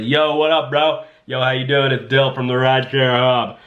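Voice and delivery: mock-casual "yo, bro" chattiness; laid-back pretend call to a big shot; casual bro phone call. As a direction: play it like leaving a buddy an offhand voicemail. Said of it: "I'm just like".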